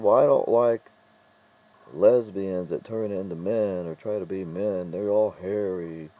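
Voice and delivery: loud, drawn-out mocking quote; imitated rudeness. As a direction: imitate a rude rant, slow and loud. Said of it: "just really rude".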